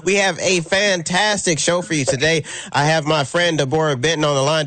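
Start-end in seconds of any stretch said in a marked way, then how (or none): 0.0-2.4 upbeat radio host welcome; show host intro. Acted. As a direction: announce it like a talk show host.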